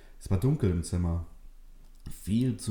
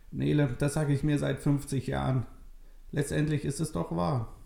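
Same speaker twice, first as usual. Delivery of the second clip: put-on higher, thin old lady voice; old woman Maria; 7 semitones higher than usual. Old Maria tells Nele it's true, frail old voice. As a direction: speak as a frail old grandmother.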